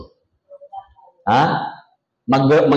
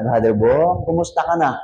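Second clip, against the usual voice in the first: sweet Tagalog woman. Retold or imitated. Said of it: "yung mga babae pagsalita".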